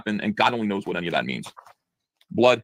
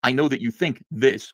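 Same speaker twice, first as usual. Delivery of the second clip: mock lecturing; 2 semitones higher, slower than usual. Shown as a demonstration. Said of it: "the characters will always speak like this".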